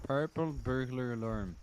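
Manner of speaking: "Purple burglar alarm" with a Scottish accent that doesn't quite land; failed Scottish attempt. Shown as a demonstration. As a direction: try the Scottish "alarm" and miss it. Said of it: "that sounds so".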